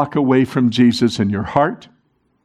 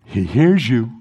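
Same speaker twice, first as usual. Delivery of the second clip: 1 hushed emphasis; 5 semitones lower than usual. Shown as a demonstration. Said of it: "I, I, I said".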